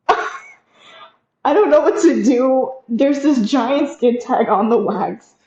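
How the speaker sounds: high, slow panicky blurt; panicked. Retold or imitated. Waxer reliving panic over a skin tag, high and frantic. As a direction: retell the moment of panic, voice up. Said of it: "I'm, like, freaking out here".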